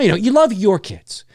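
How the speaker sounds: ordinary talk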